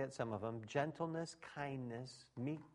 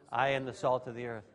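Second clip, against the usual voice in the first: congregation echo; 5 dB louder than usual. Shown as a demonstration. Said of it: "Will you say with me right now".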